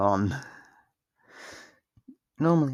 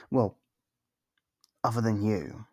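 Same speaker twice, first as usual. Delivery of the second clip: normal talking voice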